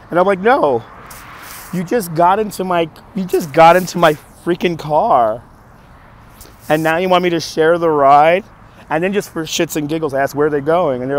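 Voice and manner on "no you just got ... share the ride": indignant retelling, a little raised; acting out frustrated disbelief; retold frustrated protest. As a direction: push back in mild exasperation. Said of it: "I was frustrated at that point".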